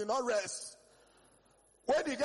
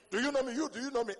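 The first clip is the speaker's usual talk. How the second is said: louder, higher challenge; mock shouting; 4 semitones higher, 5 dB louder, faster than usual. A Nigerian shouting first to win an argument, loud. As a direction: push it like winning an argument.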